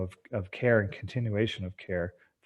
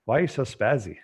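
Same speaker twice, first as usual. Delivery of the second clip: imitating a Portuguese instructor's accent, rising and louder at the end; mock scolding in a Portuguese accent; a retold Portuguese-accented coach telling him off; 4 semitones higher, 4 dB louder than usual. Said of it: "in his Portuguese accent".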